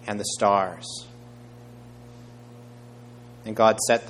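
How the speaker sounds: measured, emphatic Bible reading; scripture reading. A narrator's reading. Preacher reading Acts to the congregation, measured and emphatic. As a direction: read the passage out clearly to a congregation. Reads Genesis aloud.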